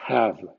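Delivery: "have" dicho hav, sin L; English "half". Shown as a demonstration. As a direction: say it as hav, L silent. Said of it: "sin L". (di "have" como jav, sin L)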